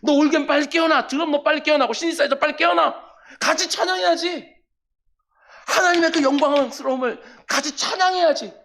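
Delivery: a preacher shouting the instruments awake; rousing the instruments. Acted. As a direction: summon each instrument like a bandleader. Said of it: "그래서 악기를 다 깨우는 거예요".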